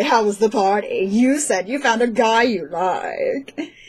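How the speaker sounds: cliché, stereotypical jerk bro voice. Voicing a guy in the game asking about a party: stereotypical douchebag voice. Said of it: "the most stereotypical douchebag voice".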